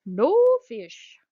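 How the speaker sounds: put-on loud seagull squawk in a funny accent; comic high-pitched scream with an odd accent. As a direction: screech it out high like a foreign gull. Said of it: "screamed ... in a funny accent".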